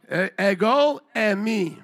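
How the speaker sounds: ego eimi slowly, as EGG-oh ay-MEE; teaching Greek pronunciation. Shown as a demonstration. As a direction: model ego eimi word by word. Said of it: "my best way of teaching you".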